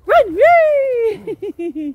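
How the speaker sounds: high, loud playful squeal; excited squeal. Real, not acted. Owner squealing to dog at play, excited. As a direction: squeal with glee as the dog runs.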